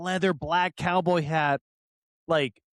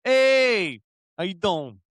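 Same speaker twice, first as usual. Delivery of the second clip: imitated Italian-American accent; 4 dB louder, slower than usual. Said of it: "he's from Chicago and he's Italian".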